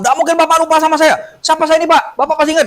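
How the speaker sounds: high, eager woman insisting; pleading woman's voice. Retold or imitated. Woman grabs the healer's hand, a lightly high eager voice. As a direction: press him to remember you.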